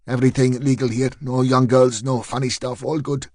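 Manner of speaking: put-on quick nervous reassurance in a light Eastern European accent; fast, light Eastern European accent. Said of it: "in an Eastern European accent".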